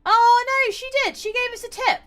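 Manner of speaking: delighted surprise at a tip; a high happy surprise at the tip; surprised. Real, not acted.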